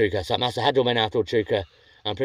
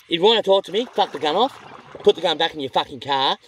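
angry retort; 5 semitones higher than usual. Retold or imitated. Fisherman telling the armed landowner to drop the gun, angry. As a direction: tell him off to his face.

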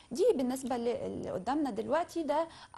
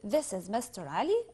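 slow, careful English model phrase; slow demo; slower than usual. Shown as a demonstration. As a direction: say it slowly for the learners. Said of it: "يبقى بقول". (نطق بطيء وواضح)

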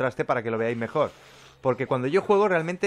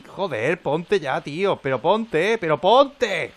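louder, higher exasperated pleading; frustrated; 5 semitones higher, 6 dB louder, much slower than usual. Real, not acted. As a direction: snap at the block to go in. Frustrated block won't place. (desesperación creciente: ¡pero ponte!)

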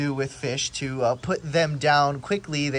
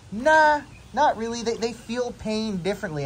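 dismissive dad; 7 semitones higher than usual. Retold or imitated. Dad brushing off his son's worry, dismissive. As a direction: shrug it off like it's obvious. Quoting dad's dismissive answer.

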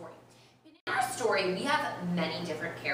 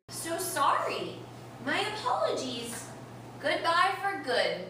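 a higher, slow, huffy duck farewell; huffy Mister Duck; 8 semitones higher than usual. Acted. Teacher reading the duck's sulky goodbye to the class. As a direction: clip each word like an offended duck.

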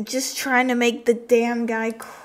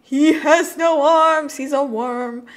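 high, loud, slow astonishment; amused shock; 6 semitones higher, 10 dB louder, slower than usual. Real, not acted. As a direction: exclaim in amused disbelief. Surprised at game character.

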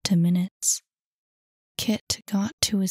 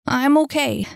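higher, louder, lightly gasped reassurance; 6 semitones higher, 5 dB louder than usual. A narrator's reading. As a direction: push it out as if winded. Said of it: "he gasped".

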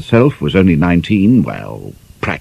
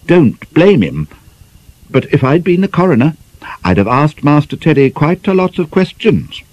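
judicial; 9 semitones higher than usual. Acted. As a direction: hand down a verdict like a mock judge. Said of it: "said Miss Tor judicially".

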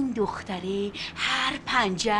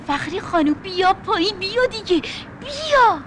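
calling out; 4 semitones higher than usual. Acted. Woman calling neighbor downstairs, rising shout. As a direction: shout up the stairs to fetch her.

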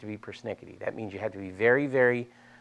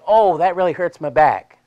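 loud, high hammed-up moan; exaggerated, pretend ouch; mock pained complaint; 6 semitones higher, 9 dB louder than usual.

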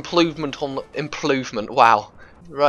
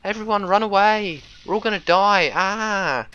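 panic intro; 5 semitones higher than usual. Shown as a demonstration. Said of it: "my panic intro".

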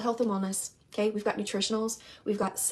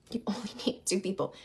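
quieter, laughing through the repeat; 2 semitones lower, 6 dB quieter than usual. Real, not acted. Repeating the rule to the audience with a soft laugh. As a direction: let a laugh slip into the repeat.

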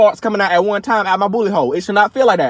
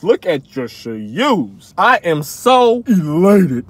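slow, lower, mock refined voice; mock rich folks; 3 semitones lower, much slower than usual. Vlogger imitates rich folks with big words, mock refined. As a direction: savor it like a snob. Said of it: "rich folks be using all the big words".

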